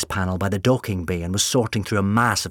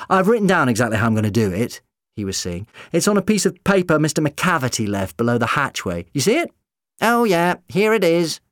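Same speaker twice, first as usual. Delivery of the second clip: high character voice; 7 semitones higher, 5 dB louder than usual. Acted. Doctor and Canon K voiced.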